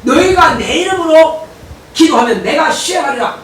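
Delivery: slow, solemn words of Jesus; Jesus' promise quoted slowly from the pulpit; voice of the Lord. Acted. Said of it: "주님께서 뭐라고 하시냐면은".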